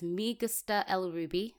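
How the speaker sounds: clumsy attempt at a Spanish accent; Spanish read with an English speaker's vowels, "Me" as "mee"; poor Spanish accent. Shown as a demonstration. Reading a Spanish code example to the co-host, poor Spanish accent. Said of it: "I apologize for my Spanish accent".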